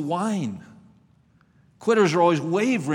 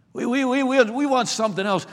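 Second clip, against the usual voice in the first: higher-pitched, stammered mock complaint; mock whining; 5 semitones higher than usual. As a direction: imitate whiners, stumbling over the first word. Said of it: "They began to whine".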